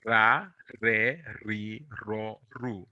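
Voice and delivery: "ra, re, ri, ro, ru" with a trilled r; rolled r drill. Shown as a demonstration. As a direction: roll the r on every syllable. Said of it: "how can we learn to roll the R?".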